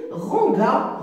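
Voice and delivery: "ranga" with a hard G before the A; misread without E. Shown as a demonstration. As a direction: say "ranga", G as in gare, no ZH sound. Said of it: "Si j'efface E".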